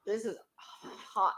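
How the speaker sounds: talking with a burning mouth; mouth on fire. Real, not acted. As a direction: speak through a mouth on fire from hot sauce. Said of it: "My mouth is on fire".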